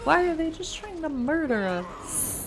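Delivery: loud, fast, indignant why; exasperated outburst. Real, not acted. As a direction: demand an answer, outraged. Upset at enemies attacking.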